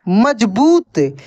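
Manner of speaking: मजबूत read slowly with the long ऊ in बूत held; syllable by syllable, long ऊ; stretched reading. Shown as a demonstration. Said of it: "उसको खींच कर पढ़ेंगे".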